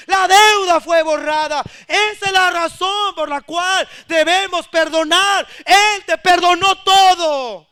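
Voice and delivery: loud, rising sermon proclamation; full-force preaching. Acted. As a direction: proclaim the good news to the church with power.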